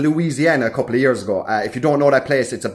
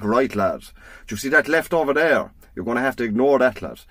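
lightly voiced old Irishman, understated; a hint of an old country man giving directions; 3 semitones lower, 4 dB quieter than usual. Irish sat nav directing a driver, lightly voiced old man. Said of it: "an old man's voice came over".

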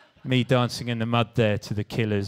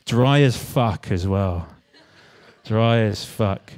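deadpan; 4 semitones lower, 3 dB louder, slower than usual. Real, not acted. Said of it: "you're getting a dry talk".

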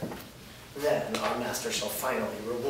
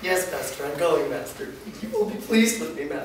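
eager scurrying servant; 5 semitones higher, 6 dB louder than usual. Acted. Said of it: "starts to scurry away".

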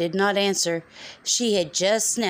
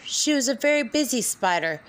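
whispering; 5 semitones higher than usual. A narrator's reading. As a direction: whisper the line. Repeated refrain, whispered once.

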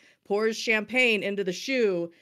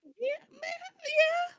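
mock squeak; much slower than usual. A high squeaky mock reply.

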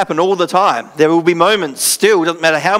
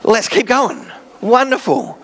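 mock cheerful; 5 semitones higher than usual. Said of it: "I'm like".

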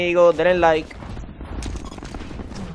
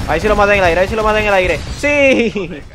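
triumphant; 3 semitones higher, 4 dB louder than usual. Real, not acted. Kill in the air, triumph.

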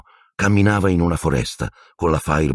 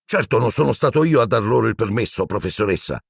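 higher offended protest; Percy protesting to teacher; indignant; 5 semitones higher than usual. Acted. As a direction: defend yourself, offended. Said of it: "disse Percy indignato".

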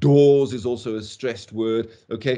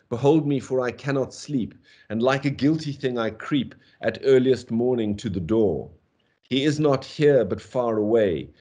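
measured poetry reading, weighted stresses; poem recital. Acted. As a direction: read it like a grieving elegy. Reads the canto aloud.

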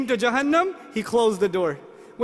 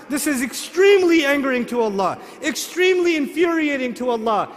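rising preaching shout; 2 semitones higher than usual. Real, not acted.

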